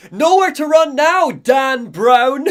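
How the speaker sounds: high, loud retold taunt; imitated gunman's shout, half laughing by the end; mock yelling. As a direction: yell it like a hammy pursuer. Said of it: "he just starts yelling".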